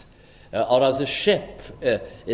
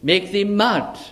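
raised-voice declamation, pitched up at the ends; mildly raised voice, accusing Paul of madness; loud voice; 3 semitones higher, slower than usual. Acted. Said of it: "said with a loud voice".

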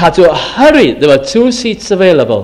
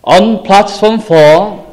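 station announcer; 3 semitones higher, slower than usual. Retold or imitated. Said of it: "A voice says".

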